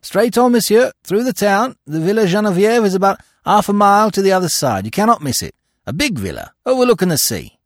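high, bright-voiced local pointing the way; helpful townsman. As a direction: call out directions eagerly to the travellers.

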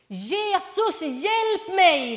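put-on loud high cry for help, a child's shout; retold child's scream. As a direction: shout it out like a sick little boy. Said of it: "skriker han rätt ut". (återberättat högt barnrop på hjälp)

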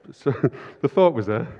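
chuckling through the words; laughing. Real, not acted. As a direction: laugh it off lightly.

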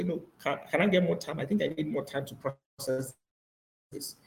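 soft, restrained acted plea; quiet request. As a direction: ask the boss softly for leeway. Acted meek answer to the boss.

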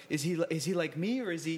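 a light imitation of Forrest Gump, wondering. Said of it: "Forrest Gump was like".

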